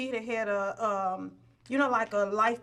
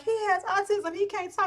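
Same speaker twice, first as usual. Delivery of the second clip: screaming; 9 semitones higher than usual. Retold or imitated. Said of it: "that's what I kept screaming".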